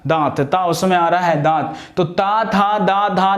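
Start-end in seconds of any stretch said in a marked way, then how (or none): 2.0-3.3 ता था दा धा ना with the tongue touching the teeth; ta-varga demo. Shown as a demonstration. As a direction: recite ता था दा धा ना slowly, tongue on teeth. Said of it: "जीभ जो है ना दांतों को जाके टच करेगी".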